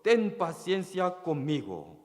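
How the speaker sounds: mild retold plea for patience; pleading. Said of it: "le suplicaba, diciendo".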